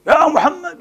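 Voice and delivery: high rising call of a name. Retold or imitated. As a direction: call him from outside the rooms. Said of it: "ينادونك من وراء الحجرات".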